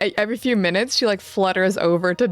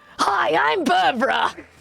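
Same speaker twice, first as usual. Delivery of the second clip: high, strained, creaky character voice pushed to rasping; 9 semitones higher than usual. On a stream, introducing a character, Barbara character voice. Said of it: "that's all of Gnome's voice".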